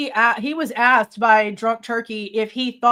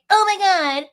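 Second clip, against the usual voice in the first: mock shock; 8 semitones higher, 3 dB louder, slower than usual. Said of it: "You want the sympathy".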